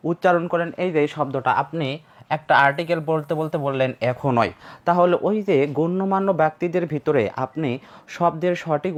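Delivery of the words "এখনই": "এখনই" mispronounced ekhon-oi, with an oi glide; mistaken ekhon-oi. Shown as a demonstration. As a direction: end "এখনই" on oi in place of plain i. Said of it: "এটার ভুল উচ্চারণ পড়েছে". ("এখনই"-কে ভুল করে এখোনোই বলা)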